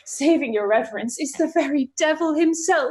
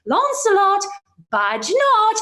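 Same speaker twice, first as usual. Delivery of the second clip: higher, firm warning; lightly voiced conscience, higher; 8 semitones higher than usual. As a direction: plead with him to stay. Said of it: "my conscience says".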